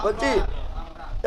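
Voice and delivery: whispered aside. Real, not acted. Unvoiced aside.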